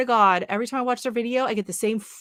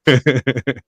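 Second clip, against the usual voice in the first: serial killer voice; 8 semitones lower, 8 dB louder than usual. Shown as a demonstration. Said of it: "was like serial killer voice".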